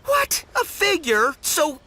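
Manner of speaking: high startled "what", then faltering; shocked surprise. Acted. Collector learns his prize is a figurine, shocked surprise. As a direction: reel from the news, slowing into dismay. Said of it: "you seem a little surprised".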